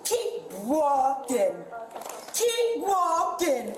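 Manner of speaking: very slow, taunting repeat; mocking drawl. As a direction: stretch each word to mock.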